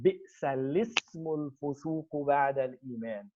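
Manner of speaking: softly recited verse, "الِاسْمُ" joined as "lismu"; classical Quranic pronunciation. Shown as a demonstration. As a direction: recite it, dropping the hamza in "الِاسْمُ". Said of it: "we do this in Quran".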